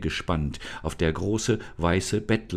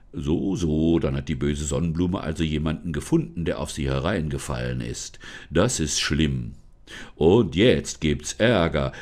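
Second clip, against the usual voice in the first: forest spirit, solemn; 4 semitones lower than usual. Acted. Forest spirit introduces himself to Lisa, low and solemn. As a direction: speak lower as the unseen forest guardian.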